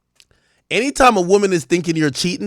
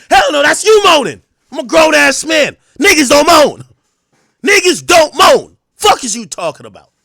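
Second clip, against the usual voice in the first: much higher and louder, yelling I'm not moaning; denial shout; 8 semitones higher, 8 dB louder than usual.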